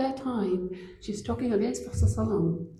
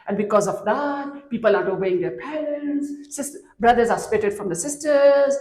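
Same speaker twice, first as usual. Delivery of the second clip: lightly voiced old woman, urgent and louder; an old lady warning a stranger, a touch raised; old woman gossiping; 4 dB louder than usual. Old woman warns the kind stranger carrying luggage, louder.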